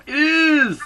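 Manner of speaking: very high, loud playful squeal; gleeful squeal. Pretend. Host agrees it's her favorite thing ever, gleeful squeal. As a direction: squeal it in mock delight. Mock-excited echo of co-host.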